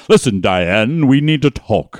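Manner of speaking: lightly stately mid-Atlantic actor voice; a hint of a pompous sitcom snob; Frasier Crane mid-Atlantic. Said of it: "speak like I'm Frasier Crane".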